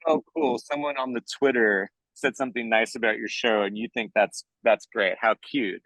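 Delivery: lightly patronizing imitation of producers; feigned interest, talking down a little; mock condescending. Producers brushing off a writer's online fans, mildly condescending. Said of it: "you know, condescending".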